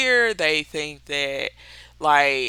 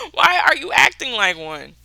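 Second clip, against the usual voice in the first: raised but more controlled, spelled-out question; pointed retort; 4 semitones higher than usual. Retold or imitated. Speaker repeating the comeback to a childish adult, pointed and deliberate. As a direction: repeat it pointedly, less shouted, after a laugh.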